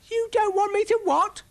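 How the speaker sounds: high, loud panicked squeal; panicking. Acted.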